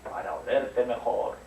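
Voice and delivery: slow wolf reply; wolf answer. Acted. Wolf answers the girl, slow and sly. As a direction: drag out the wolf's sly answer. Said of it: "Dijo el lobo".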